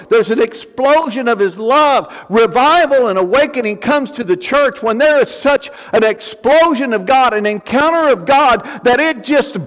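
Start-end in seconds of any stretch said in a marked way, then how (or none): 2.3-9.6 preaching that climbs, each "burst" hit harder; building sermon. Acted. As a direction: build the fire line by line.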